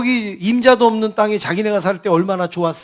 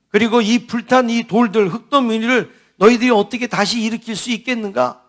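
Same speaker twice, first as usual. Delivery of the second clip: mildly scornful rhetorical jabs; acted mockery. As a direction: imitate a jeerer belittling weak captives. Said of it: "아, 이러면서 막 비웃는 거예요".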